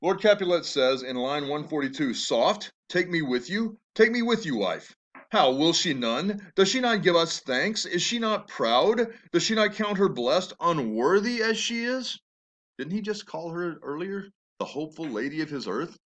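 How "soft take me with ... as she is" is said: angry father. Acted. Teacher reads furious Capulet aloud.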